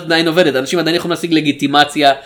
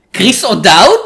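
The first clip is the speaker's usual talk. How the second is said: incredulous question; 4 semitones higher, 4 dB louder than usual. Acted. Reacting to the casting news with co-host, incredulous. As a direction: voice jumps up on the name in disbelief.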